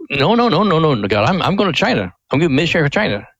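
rising, insistent "no, no" building into a high, emphatic refusal; protesting refusal. Retold or imitated. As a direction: plead your way out, you're set on China. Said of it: "And Dad said".

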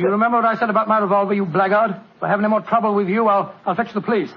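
fast, firm warning; stern threat. Acted. Watson threatens the den keeper, firm and fast. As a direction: rattle off the threat to scare him.

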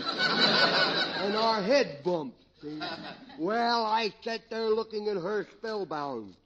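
slurred, tipsy comedy character; comic drunk. Acted. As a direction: play a rambling drunk for laughs. Drunk tells romance story.

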